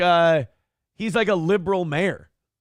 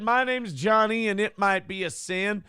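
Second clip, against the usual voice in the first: storyteller recitation; 3 semitones higher than usual. Acted. Reciting a song.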